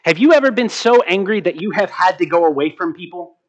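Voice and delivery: ordinary talk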